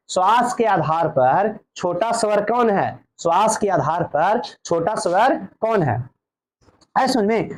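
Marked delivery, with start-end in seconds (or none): 0.1-6.1 slow exam question. Shown as a demonstration. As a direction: read the question slowly, word by word. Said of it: "चाहे तो question ऐसे भी बोल सकता है".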